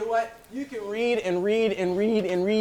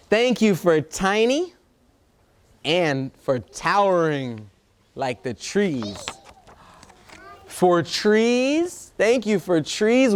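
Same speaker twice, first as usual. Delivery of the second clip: slow, measured picture-book reading with long pauses; reading to children; slower than usual. Acted. Reader shares a love letter to Earth with children, slow storytime reading. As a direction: read it out phrase by phrase for little listeners.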